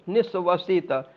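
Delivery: निःश्वसित said as one joined word; निःश्वसित in one breath; pronunciation demo. Shown as a demonstration. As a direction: run निःश्वसित together, no break after निस्व. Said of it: "इसको बिल्कुल ऐसे में बोलिए".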